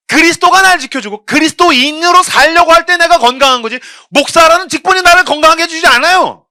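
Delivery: loud, high preaching; forceful preaching. Acted. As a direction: preach it out hard from the pulpit. (강단에서 힘차게 외치는 설교)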